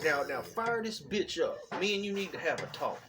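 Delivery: a hint of dad taking charge; imitating dad's voice. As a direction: mimic dad announcing a serious talk. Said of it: "That's how he was".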